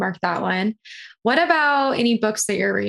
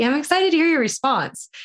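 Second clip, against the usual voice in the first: higher and bouncy on excited; playful excitement; 6 semitones higher than usual. Real, not acted. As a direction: lift your voice on excited. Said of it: "I'm, I'm excited".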